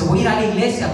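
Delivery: imitating a mocking promise, rising at the end; mock sincerity, lightly sneered as a retold quote; tono de burla. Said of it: "pero su tono de burla". (con tono de burla, imitando)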